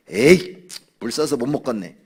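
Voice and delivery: loud, exasperated complaint, rising at the end; acted grumbling. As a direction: imitate a fed-up follower griping. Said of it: "이렇게 원망부터 한다". (큰 소리로 투덜대며 원망하는 흉내)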